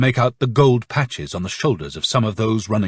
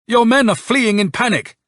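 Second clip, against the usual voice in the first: high-pitched urgent report; calling out, confused, elated; 11 semitones higher, 3 dB louder than usual. A narrator's reading. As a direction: call it out to a superior, agitated. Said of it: "called out Nikolka, confused and yet at the same time elated".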